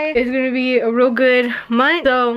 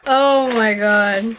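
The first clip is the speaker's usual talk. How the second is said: laughing; much slower than usual. Real, not acted. Reacting to sour candy.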